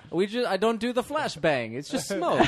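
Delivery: high, laughing mock Middle Earth gypsy accent. Wizard joking about his smoke tricks in a mock Middle Earth gypsy accent. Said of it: "don't know what accent that was".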